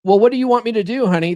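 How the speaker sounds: a husband begging his wife for instructions; mock helpless husband. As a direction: blurt it out like a lost puppy. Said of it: "That's the next one".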